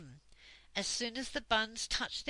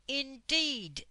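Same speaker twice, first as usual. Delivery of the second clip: higher, drawn-out warning word; icy menace; 7 semitones higher, 4 dB louder than usual. A narrator's reading. Dame Slap answering the rebels, menacing. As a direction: let it hang like a threat.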